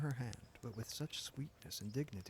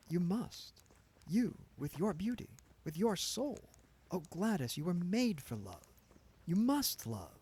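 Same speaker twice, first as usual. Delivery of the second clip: ardent, louder plea to Gladys; ardent pleading; 8 semitones higher, 7 dB louder than usual. A narrator's reading. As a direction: press her with eager passion. Ned passionately urging Gladys.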